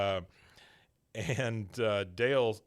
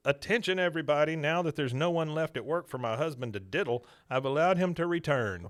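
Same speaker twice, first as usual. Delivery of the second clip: announcing; 5 semitones higher, 5 dB louder than usual. Retold or imitated. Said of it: "Miss Liz".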